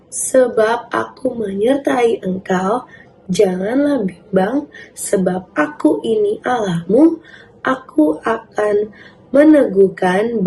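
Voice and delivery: slow, measured scripture reading; verse recitation. Acted. Teacher leading children in a memory verse, slow recitation. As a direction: read it out deliberately so children can follow. Leads a verse read aloud together.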